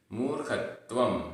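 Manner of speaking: मूर्खत्वम with a half त joined to व; careful मूर्खत्वम, closing on a nasal m; pronunciation demo. Shown as a demonstration. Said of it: "आधा ता व".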